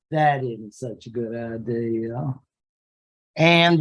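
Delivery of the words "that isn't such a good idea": stuffy conservatives. Retold or imitated. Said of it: "the conservatives of Britain are going like".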